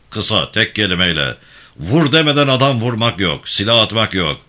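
a firm, lightly voiced gang chief giving orders; steady commanding tone, barely apart from the narration; commanding leader. İbrahim Bey instructions.

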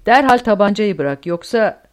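loud, forceful order; shouted threat. A narrator's reading. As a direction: raise the voice and threaten. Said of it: "diye bağırdı Kleist". (bağırarak tehditkâr emir)

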